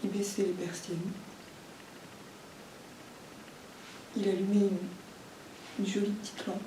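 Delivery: quiet, halting account with long pauses; restrained, weighted confession; subdued disclosure. Acted. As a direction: lay it out softly, piece by piece. Discloses childhood abuse to the family.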